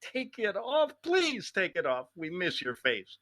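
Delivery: women begging Greg to take his mask off, mock-pleading. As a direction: beg him to take it off, lightly camp. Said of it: "All the women in the world are going".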